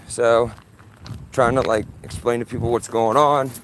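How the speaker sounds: talking around a cigarette; cigarette in mouth. Real, not acted. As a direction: cigarette in mouth, lips held tight. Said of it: "why I got a cigarette in my mouth".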